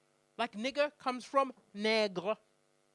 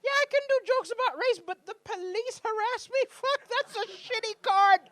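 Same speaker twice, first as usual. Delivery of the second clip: exasperated; 11 semitones higher, 8 dB louder than usual. Retold or imitated. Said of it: "I was like".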